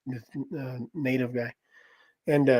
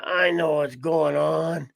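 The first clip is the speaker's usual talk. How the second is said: slow, slurred-sounding mock drunk; drunk driver; slower than usual. Man imitating the drunk driver caught in the van, slow and knowing.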